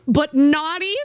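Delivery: deadpan cheeky add-on; cheeky naughty. Retold or imitated. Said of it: "he went up and said".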